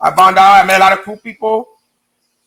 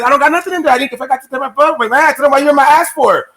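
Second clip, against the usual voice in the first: higher-pitched, protesting comeback; retold indignant denial; 6 semitones higher than usual. Inmate denying drugs to the searching officer, indignant. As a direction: act out protesting your innocence, pitch raised.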